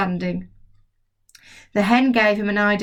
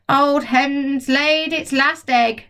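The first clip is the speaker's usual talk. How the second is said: grandma shouting; 6 semitones higher, much slower than usual. Acted. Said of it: "Grandma shouted".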